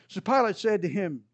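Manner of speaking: normal talking voice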